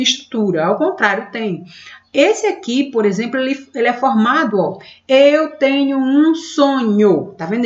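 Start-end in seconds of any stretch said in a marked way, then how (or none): 5.1-7.3 slow verse reading. Shown as a demonstration. Teacher reads the verse to students, counting syllables slowly. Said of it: "Ele tem cinco sílabas".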